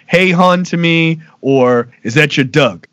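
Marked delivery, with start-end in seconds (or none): 0.1-0.6 lightly put-on Baltimore greeting; Baltimore accent. Shown as a demonstration. Local diner worker greeting a customer, Baltimore accent. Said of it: "in, in Baltimore East". 2.0-2.9 "dog" said as "Doug", Baltimore style; lightly put-on Baltimorese; Baltimore accent. Shown as a demonstration. Local worker asking a customer about a pet, Baltimore accent. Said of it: "That's dog, by the way".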